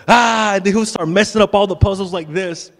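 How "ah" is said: loud, high mock roar; toddler attack roar. Dad imitating Caden messing up puzzles, loud high toddler roar. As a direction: burst in roaring like a little destroyer. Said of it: "and he'll go".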